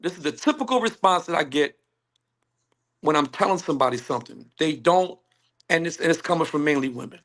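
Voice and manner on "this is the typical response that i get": "typical" picked out with emphasis; stress on "typical". Real, not acted. Man repeating his point about women's response, "typical" emphasized. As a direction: make "typical" the key word. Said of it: "I emphasize the word typical".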